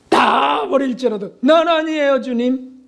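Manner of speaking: slow shouted boast of loyalty; boastful vow. Retold or imitated. Peter shouting to Jesus that he will never leave.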